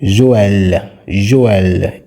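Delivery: "Joël" with E sounded apart from O; distinct E. Shown as a demonstration. Teacher showing E is distinct from O, distinct E. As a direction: give "Joël" two clear vowels, jo-EL. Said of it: "E is distinct from the O sound".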